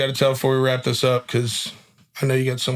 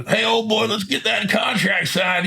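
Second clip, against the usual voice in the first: mock sales pitch; 6 semitones higher, slower than usual. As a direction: play a pushy salesman closing the deal. Mock salesman greeting client.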